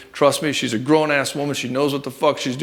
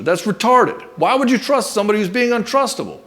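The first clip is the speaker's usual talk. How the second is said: raised, incredulous scoff; indignant outburst; 7 semitones higher, 3 dB louder than usual. Real, not acted. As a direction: pitch jumps up high and louder, exasperated. Indignant rant about counselor advice.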